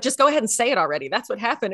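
quick, pushy mock demand; mildly accusatory. Imitating listener demanding the gossip, mildly accusatory. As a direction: rattle it off like an accusation. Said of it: "she was kind of accusatory in it too".

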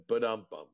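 quoted rimshot sound. Retold or imitated. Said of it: "and I said".

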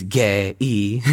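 Korean accent, gay-y stretched slowly into two syllables; Korean-accented gay-y, drawn out. Shown as a demonstration. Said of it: "said with a Korean accent".

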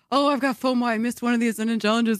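anxious inner thoughts voice. Retold or imitated. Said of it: "Why do you sound like my inner thoughts?".

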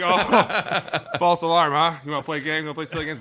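mock sarcasm. Players mocking the stunt.

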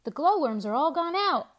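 loud, high alarm; urgent witch cry. A narrator's reading. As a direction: hurry everyone home. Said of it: "cried a witch".

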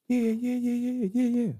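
high, rapid-fire agreement; imitated eager yes. Hungry man answers a stranger's offer of food, imitated eager yeses. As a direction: imitate someone jumping at an offer.

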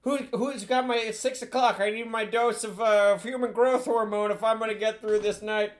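put-on rambling old politician voice; folksy meandering old statesman; Joe impression. Same rambling impression continues.

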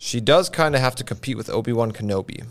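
flat, even monotone read. Shown as a demonstration. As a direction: read it with no expression. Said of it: "I'm gonna say it in a monotone voice".

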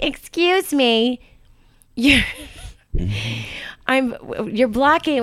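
slow, drawn-out snooty complaint; lightly voiced snooty woman; a hint of a prissy sunbather; haughty beachgoer. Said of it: "She's like".

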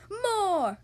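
high, drawn-out shout; loud cry. Acted. Wizard urging a bigger sip, crying out loudly. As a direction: belt it out as a command. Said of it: "cried the wizard".

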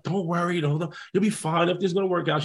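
softly voiced reassurance; calming sister. Sister to anxious brother awaiting the draft, calming. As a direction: soothe him quietly, as his sister. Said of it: "She's trying to keep me calm".

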